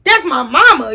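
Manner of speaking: high, fast, heated yell with a laugh in it; half-laughing angry rant; mad yelling. Retold or imitated. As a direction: shout at the boyfriend, fired up. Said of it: "'cause I'm mad".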